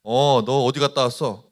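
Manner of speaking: mock stern teacher voice. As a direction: grill the student like a strict teacher. Teacher interrogating student.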